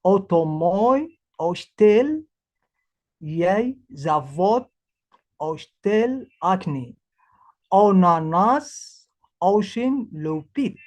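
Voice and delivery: slow, careful Russian word-by-word reading; deliberate Russian pronunciation demo; Russian read-aloud. Shown as a demonstration. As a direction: spell the Russian words out for learners. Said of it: "exactly the phonetics for Russian".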